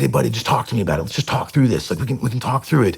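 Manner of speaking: imitating a dad talking his son round; retold coaxing dad.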